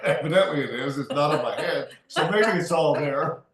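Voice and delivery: laughing through the words; chuckling at his own joke. Real, not acted. Telling the hair joke, laughing as he speaks.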